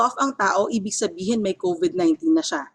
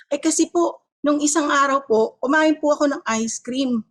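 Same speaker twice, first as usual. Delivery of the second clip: lightly acted patient, a bit higher; mock patient; 5 semitones higher than usual. Patient tells the doctor about eating ice cream, mock explaining. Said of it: "pupunta sa doktor nyo at sasabihin nyo".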